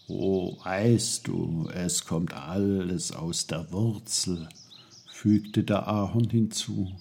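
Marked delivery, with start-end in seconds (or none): 0.1-4.5 wise maple tree. Acted. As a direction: explain unhurriedly as an old tree. Maple voiced in story.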